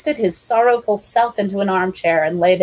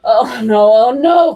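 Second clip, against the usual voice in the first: loud hammy moan; loud mock oh no; 3 semitones higher, 8 dB louder, slower than usual. A narrator's reading. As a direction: collapse with a groan. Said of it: "Clifford moaned".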